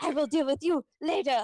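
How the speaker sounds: mock angry, threatening little man voice. Telling a story, the speaker quotes the angry little man catching a recruit, imitating an angry trainer. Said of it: "the angry little man".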